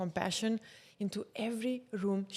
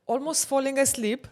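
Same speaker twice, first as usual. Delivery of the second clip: ordinary talk, nothing marked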